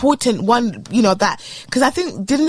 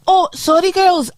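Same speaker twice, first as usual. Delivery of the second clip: put-on Scottish accent; 5 semitones higher than usual. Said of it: "oh, wait, that's Scottish".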